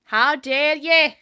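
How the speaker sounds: slow, loud, drawn-out indignant gasp; mock outrage. Gamer opening her video with mock outrage. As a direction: play up the offended diva.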